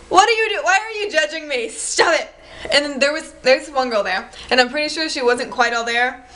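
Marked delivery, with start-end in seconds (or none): 0.1-2.3 indignant retort. Retold or imitated. Acted irritated retort to gigglers.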